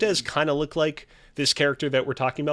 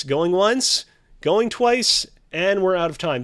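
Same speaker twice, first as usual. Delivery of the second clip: auctioneer countdown; 5 semitones higher, 4 dB louder than usual. Acted. Host closing the bidding.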